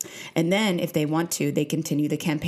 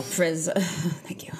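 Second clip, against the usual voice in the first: laughing whisper; much slower than usual. Real, not acted.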